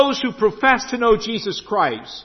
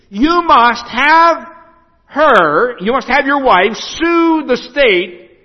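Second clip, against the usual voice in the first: pompous lawyer; 4 semitones higher, 4 dB louder than usual. Retold or imitated. Pastor voices high-powered lawyer's advice.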